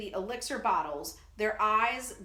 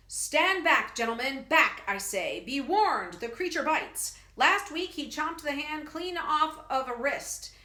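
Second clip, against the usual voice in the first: loud, higher barker warning the crowd; mighty showman call; 4 semitones higher, 4 dB louder than usual. Acted. Professor warning gentlemen off the biting creature, loud booming barker. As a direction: boom it out to hold the crowd back. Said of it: "His mighty voice ringing in the night".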